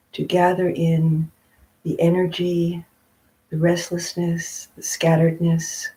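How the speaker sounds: unhurried meditation guidance with long pauses; guided meditation. Real, not acted. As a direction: gently guide them into stillness, phrase by phrase.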